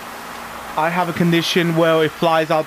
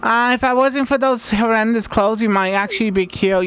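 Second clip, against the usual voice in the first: Haley voice; 4 semitones higher than usual. Acted. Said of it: "the bitch of the game".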